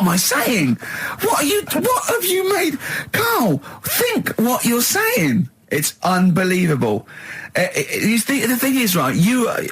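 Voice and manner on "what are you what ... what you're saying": high, wailing mock cry; slow, whining plea to Carl; mock despair. Real, not acted.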